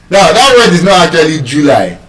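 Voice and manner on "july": July as JOO-lai; wrong first-syllable stress. Shown as a demonstration. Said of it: "It's not stressed on the first syllable".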